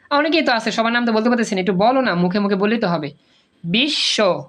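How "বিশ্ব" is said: বিশ্ব as bish-sho with a long sh; doubled consonant. Shown as a demonstration. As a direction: model বিশ্ব in two separated syllables. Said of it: "এই যে দুইবার উচ্চারণ হয়েছে". (বিশ্ব, বিশ্-শো, শ দ্বিত্ব)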